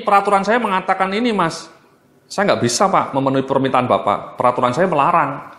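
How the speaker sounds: hide behind the rules, unbending; rigid refusal. Shown as a demonstration. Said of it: "ini terlalu kaku ini".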